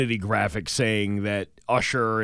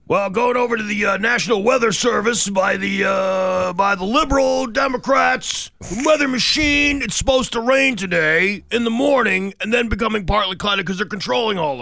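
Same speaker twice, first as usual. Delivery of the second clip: higher, ranting conspiracy theorist voice; conspiracy nut; 8 semitones higher than usual. Pretend. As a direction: ham up a paranoid ranter. Mock conspiracy weather report.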